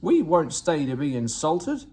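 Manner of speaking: loud, offended huff; indignant coaches storming off; fuming. Acted. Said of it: "they fumed".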